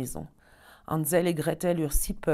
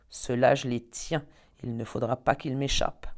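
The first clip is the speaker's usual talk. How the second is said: honeyed voice; 3 semitones lower than usual. Acted. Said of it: "dit d'une voix mielleuse".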